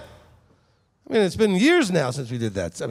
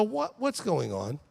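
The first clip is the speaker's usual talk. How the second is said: feigned waking; 9 dB quieter, slower than usual. Acted. Yeshua feigning just waking up.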